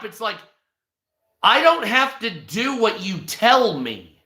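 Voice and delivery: ordinary talk, nothing marked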